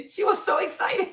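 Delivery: high, giggly voice breaking into laughter; tickled, laughing through the words; giggling. Real, not acted. Giggles while recalling the child's excitement.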